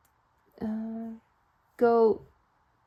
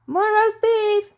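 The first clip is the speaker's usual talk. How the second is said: high, loud, slow call; firm call; 12 semitones higher, 11 dB louder, much slower than usual. Acted. Missus Flibbertigibb answering her husband, loudly. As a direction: insist on the roast beef. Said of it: "said Missus Flibbertigibb".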